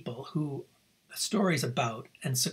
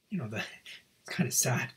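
choked up; 3 dB quieter, faster than usual. Real, not acted. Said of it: "Sorry, I get emotional sometimes".

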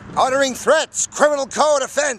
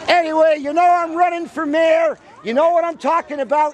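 shouting to the crowd; calling out; 3 semitones higher than usual. Real, not acted.

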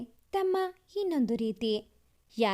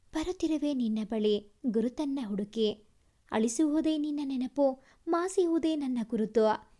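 recited love poem; 2 semitones lower than usual. Acted. A lover's longing poem read tenderly. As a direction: let each line linger like verse.

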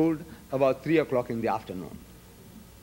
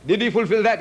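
"Did he fulfill that?" pushed louder, ending on a hard fall on "that"; challenging repeat, voice raised; emphatic repeat; 4 semitones higher, 4 dB louder than usual. Shown as a demonstration. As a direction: press the question home, louder.

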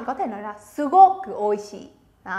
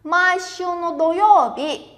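slow, syllable by syllable; slow model reading; 4 semitones higher, 3 dB louder, much slower than usual. Shown as a demonstration. Teacher reading slowly for the class to repeat. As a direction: read it slowly for students to repeat. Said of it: "Bắt đầu".

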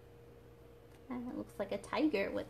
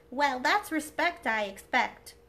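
cheeky clown voice; 3 semitones higher, 5 dB louder than usual. Acted. Clown speaks.

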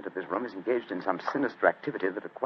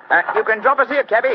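loud, high Cockney cabman's voice; Cockney accent; 11 semitones higher, 8 dB louder than usual. Acted. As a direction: call out to the cabby in broad Cockney. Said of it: "My Cockney accent".

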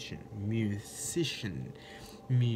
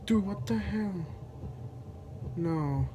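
much higher, frightened squeal; panicked; 8 semitones higher, slower than usual. Real, not acted.

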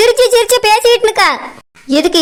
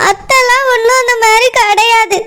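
tearful protest; 2 semitones higher than usual. Acted. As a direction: object through tears. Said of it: "எப்படி அழுதுட்டு இருக்கா பாரு".

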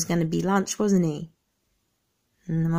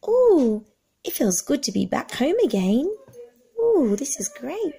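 high, pleased little turtle voice; lightly voiced happy turtle; 8 semitones higher than usual. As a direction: sigh with relief back in the water.

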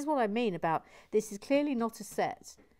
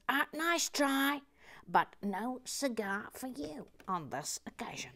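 teasing professor; 5 semitones higher than usual. Acted. Acting Professor Lex's teasing reply.

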